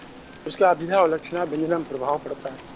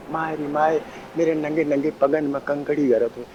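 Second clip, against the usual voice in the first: sweet voice; 3 semitones lower than usual. Shown as a demonstration. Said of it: "वही अर्थ वही निकला".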